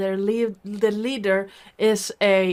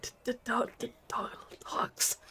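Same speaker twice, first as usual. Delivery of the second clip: stuttering whisper; 3 semitones higher, 12 dB quieter than usual. Acted.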